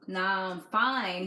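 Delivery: a touch of imitating a cold, standoffish guy. Boyfriend brushing off worried caller, slow and distant. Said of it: "mad standoffish".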